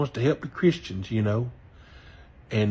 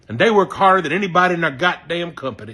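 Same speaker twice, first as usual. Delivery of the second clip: fast, loud and heated, swearing; heated loud claim; 3 semitones higher, 4 dB louder, faster than usual. Real, not acted. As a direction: belt it out, angry and fast. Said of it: "Excuse me".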